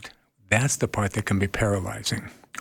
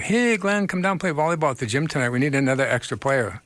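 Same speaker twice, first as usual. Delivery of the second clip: upbeat friend invite; 4 semitones higher than usual. Retold or imitated. Friend inviting to volleyball, retold.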